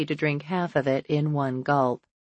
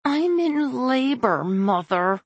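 growling; 9 semitones higher, slower than usual. Acted. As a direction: growl it at her mother. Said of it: "Chloe growls".

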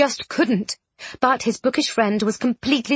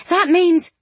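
Miss Bronte voice; 7 semitones higher, 4 dB louder than usual. A narrator's reading.

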